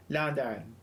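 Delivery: badly done Cockney London accent. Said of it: "greatest South African London accent".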